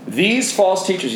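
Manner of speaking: "These false teachers" read slowly, each word weighted; emphatic reading. Shown as a demonstration. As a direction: lean on "These". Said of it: "I'll try and read emphatically".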